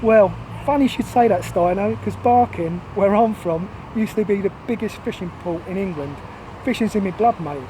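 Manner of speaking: defensive banter. Acted. Londoner answering his Cornish friend's dig, defensive banter. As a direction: bat the teasing back, standing up for yourself. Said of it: "as a way of defending myself".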